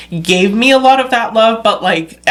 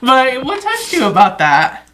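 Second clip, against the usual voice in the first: high, laugh-filled question; 7 semitones higher than usual. Real, not acted. Host asking the moved guest what touched her, laughing. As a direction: ask tenderly through a laugh.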